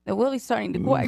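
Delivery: R's turned to W's in REALLY and QUACK; speech impediment imitation. Clerk commenting to a customer, imitated speech impediment. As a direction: say REALLY as "willy", "crack" as QUACK. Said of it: "she has a speech impediment".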